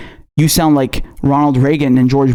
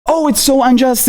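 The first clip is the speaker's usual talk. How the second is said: higher, mock-dramatic whine; hammed-up mock lament; mocking her rant; 8 semitones higher than usual. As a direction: parody her fake outrage. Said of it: "ranting about in her videos".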